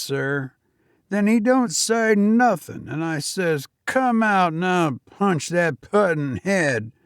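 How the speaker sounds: put-on a nervous young servant answering his master; young Cockney servant. Thomas recounts the fight.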